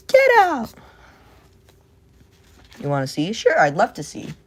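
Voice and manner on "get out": very high, loud mock shove-off; squeaky get out. Shooing a chatter away, high squeak.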